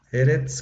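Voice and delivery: Eretz, crisp, rising at the end; teacher repeats Eretz; Hebrew word eretz. Shown as a demonstration. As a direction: model Eretz for the class. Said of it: "que significa tierra".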